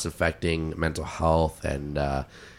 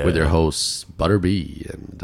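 smooth radio host. Pretend. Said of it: "imagine us starting a podcast and going".

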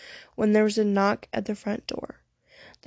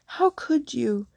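shocked; 3 semitones higher, slower than usual. A narrator's reading. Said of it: "cried Eileen, shocked".

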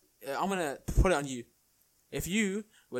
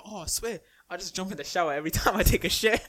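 laughing quote; 3 semitones higher, 3 dB louder than usual. Retold or imitated. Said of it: "he was like".

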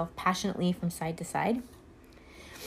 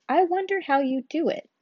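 curious wonder; 9 semitones higher, 5 dB louder than usual. Acted. Rose's curious aside.

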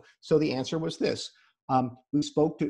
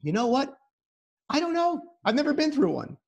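high, gentle admission of not knowing; lightly acted parental honesty, pitched up; candid parent; 11 semitones higher than usual. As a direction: answer a worried child openly. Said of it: "it's okay to say".

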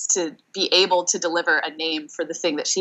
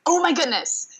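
mock excited scream; 11 semitones higher than usual. Coach retelling her client's breakthrough reaction, mock excited scream. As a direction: imitate an excited squeal without the volume.

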